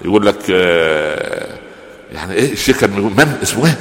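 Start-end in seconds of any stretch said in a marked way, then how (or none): none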